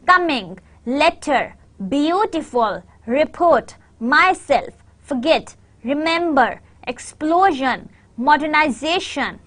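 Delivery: one word at a time, stressed syllable clear in "coming", "letter", "beautiful"; teacher's word list, punching the stressed syllable of "report", "myself", "forget"; word stress demo. Shown as a demonstration. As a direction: list each word separately with a falling tune, as in "remember", "explosion". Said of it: "there is a word stress".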